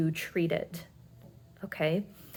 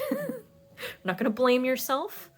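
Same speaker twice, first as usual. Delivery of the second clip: a quick laugh into "We're"; 7 semitones higher than usual. Real, not acted. Laughing mid-sentence, pitch jumps.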